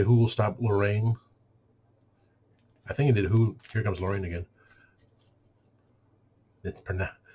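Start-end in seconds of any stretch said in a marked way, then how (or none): none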